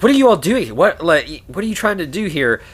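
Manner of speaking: high, agitated imitation of a paranoid man; angry, paranoid. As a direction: confront them, voice jumping up. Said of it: "he gets really angry and paranoid".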